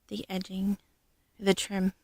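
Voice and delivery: whispered word search. Real, not acted. Searching for the right word, a whispered aside. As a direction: whisper it while finding the word.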